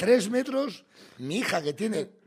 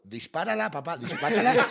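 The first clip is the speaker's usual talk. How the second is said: imitating daughter. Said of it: "la niña con una angustia me miraba como diciendo".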